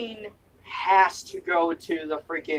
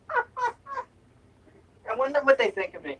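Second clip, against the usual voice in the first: laughing; 10 semitones higher, slower than usual. Real, not acted. High slow laughing.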